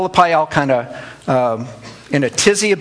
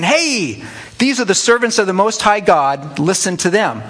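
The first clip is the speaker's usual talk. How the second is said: high, eager shout of a traveling MC; a slave girl hollering after Paul like a hype man; calling out; 4 semitones higher than usual. Retold or imitated. Slave girl calls out to the crowd, high and eager.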